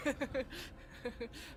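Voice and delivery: harsh error buzz; a hoarse game-show wrong-answer buzz; wrong buzzer noise. Pretend. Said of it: "That's my wrong buzzer noise".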